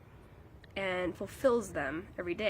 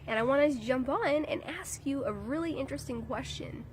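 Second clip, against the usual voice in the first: stuffy nose from a cold; nasal, congested voice from a cold; nasally voice; 3 semitones higher than usual. Real, not acted. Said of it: "like, nasally voice".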